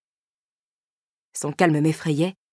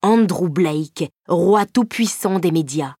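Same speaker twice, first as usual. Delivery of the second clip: sneering title; 2 semitones higher, 3 dB louder, slower than usual. Acted. Mocking the rival's title.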